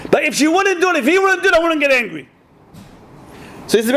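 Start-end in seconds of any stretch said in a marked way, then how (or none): 0.1-2.3 higher, sing-song mock whine; lightly mocking the husband's excuse. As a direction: parody the excuse, pitched up.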